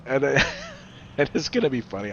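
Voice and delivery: real laugh breaking into the words; talking through genuine laughter. Real, not acted. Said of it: "I'm sorry for laughing".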